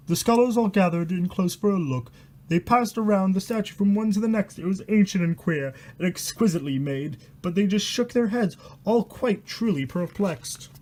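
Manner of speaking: steady reading of a spooky rhyme; rhyming story reading. A narrator's reading. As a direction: read the verse out like a bedtime horror tale. Reads rhyming horror book aloud.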